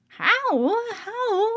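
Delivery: a frightened mother begging to know; anxious asking. Acted. Johnny's mother pleading at the meeting, high and tearful. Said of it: "asked Johnny's mother".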